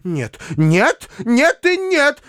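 high, shrill refusal that swells into a cry; no, no, no, rising into a cry; shouting. Acted. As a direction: spinster shouting down her niece's refusal. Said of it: "закричала она и замахала руками".

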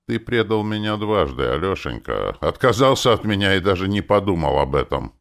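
mildly mournful reproach; saddened, wounded rebuke; sorrowful. A narrator's reading. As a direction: accuse with hurt, voice rising. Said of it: "печально заметил Архонт".

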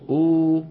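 أو held as a long oo; long oo vowel. Shown as a demonstration. Teacher showing students the lengthened vowel, held long. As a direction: draw أو out into a long oo. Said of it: "وبدلا من أن يقولوا أ يقولون".

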